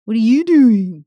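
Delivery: loud, swooping mock-Californian accent; California sketch accent. Host quoting the SNL sketch on California dialect, hammed-up Californian accent. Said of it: "from the S N L sketch".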